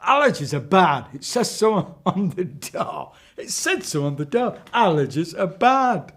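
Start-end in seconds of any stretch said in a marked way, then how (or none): 0.0-3.1 witch voice. Acted. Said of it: "kept talking like this". 4.7-6.1 witch voice. Acted. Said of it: "quote repeated".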